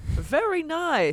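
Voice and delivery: put-on drawn-out, high Asian accent; slow Asian accent. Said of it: "That was so Asian".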